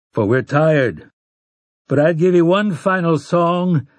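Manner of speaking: lightly voiced old gunslinger, folksy; a hint of a rugged Roland; weathered gunslinger. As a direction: speak plainly like a tired old traveller. Roland speaks to the folk.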